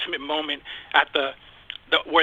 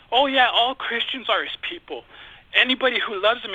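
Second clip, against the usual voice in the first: mildly defensive mock objection, pitched higher; uptight retort; 4 semitones higher than usual. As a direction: imitate people getting a little huffy. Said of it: "get all up and tight".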